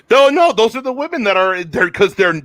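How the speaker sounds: high, loud laugh into a hasty correction; flustered laughing denial. Real, not acted. Host hastily correcting herself about the women, laughing and flustered. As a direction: protest through laughter, pitch jumping up.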